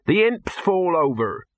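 complaining handleman. Acted. Handleman objects to how the trolls moved, complaining.

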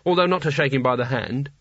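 speaking through clenched teeth; gritted teeth. Acted. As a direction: hold your jaw tight with irritation. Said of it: "through gritted teeth".

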